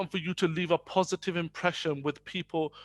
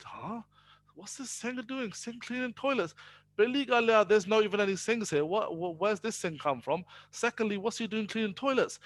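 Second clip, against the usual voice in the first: higher and softer, a puzzled undertone; mild surprise; 5 semitones higher, 4 dB quieter than usual. Retold or imitated. Businessman sees a Sikh cleaning toilets, hushed surprise. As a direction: retell his astonished muttering, half to himself.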